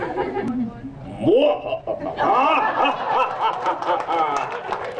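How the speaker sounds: long evil villain cackle; villain laugh. Acted. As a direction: cackle like a dark lord gloating. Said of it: "Can you do the Forsaken Wahaha?".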